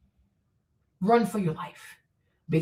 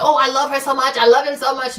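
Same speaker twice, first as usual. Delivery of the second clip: mock gushing shout; 3 semitones higher, 6 dB louder than usual. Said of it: "go shouting at the".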